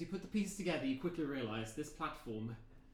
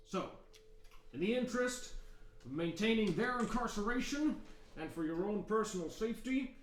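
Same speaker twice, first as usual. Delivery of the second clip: louder guard giving rules; stern guard; 4 semitones higher, 4 dB louder than usual. Acted. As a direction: address the prisoners' visitors like a tough guard. Guard briefs the party.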